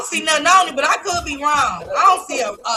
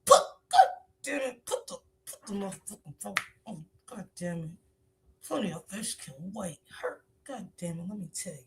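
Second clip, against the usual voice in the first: imitated scolding mom; 5 semitones lower, 6 dB quieter than usual. Voicing mother scolding daughters.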